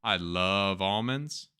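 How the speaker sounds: slow, genuinely fond; really mean it this time; sincere. Real, not acted. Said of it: "That's not true".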